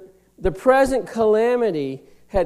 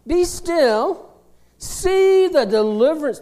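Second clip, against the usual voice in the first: Moses calming people; 8 semitones higher, 5 dB louder than usual. Retold or imitated. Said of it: "and he tells them".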